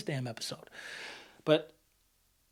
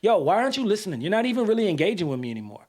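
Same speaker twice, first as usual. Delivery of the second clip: raised, pressing demand; angry confrontation; 3 semitones higher than usual. Retold or imitated. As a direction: push like a frustrated friend. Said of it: "let's say I don't have good E Q".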